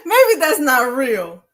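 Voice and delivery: drawn out like she can't believe it; stunned disbelief. Real, not acted. Starstruck host reacting to a famous guest, slow and stunned.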